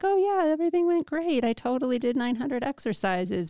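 lightly acted cheerful fib; feigned breezy success. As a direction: put on a too-easy "all went great" report. Mock report of fibbing to therapist.

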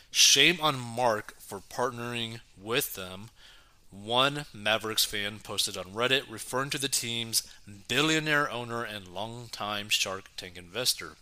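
reading an article aloud; news read. Acted.

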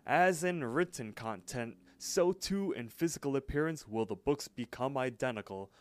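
wise sage. Retold or imitated. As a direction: intone it like a mock-wise mystic. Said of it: "talk all, like, wise".

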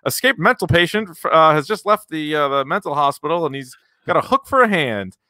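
mock radio news bulletin cutting in; radiojornalista em boletim urgente. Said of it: "when news breaks in on the radio".

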